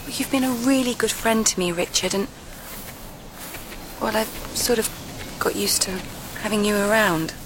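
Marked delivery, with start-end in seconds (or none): 4.0-5.9 whispering. Acted. Door pleading Richard to stay.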